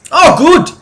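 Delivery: put-on loud, high, boisterous drunk dwarf; drunk dwarf mercenary. Dwarf mercenary praising the heroes, loud drunken voice. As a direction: bellow like a tipsy burly dwarf. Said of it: "he goes".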